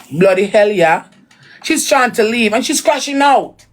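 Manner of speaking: imitating English speech with British swearing; mock English accent. Mocking her crashing out as he leaves, mock English accent. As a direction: slip back into a put-on English accent. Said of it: "accent for accident".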